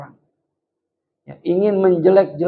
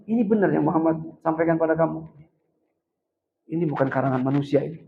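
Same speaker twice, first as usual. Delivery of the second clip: softer, subdued questioning voice; lemas, mereda; 5 dB quieter than usual. Retold or imitated. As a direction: let the anger drain into a quiet, weakened voice. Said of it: "Lemas Sayyidina Umar". (suara pelan dan lemas, emosi mereda)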